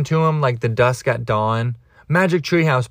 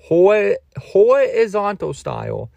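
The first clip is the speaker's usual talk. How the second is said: higher, slow, put-on sultry drawl; camp, slow and high; hammed-up sultry voice; 7 semitones higher, slower than usual. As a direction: stretch it out like a mock seductress. Repeats phrase in put-on voice.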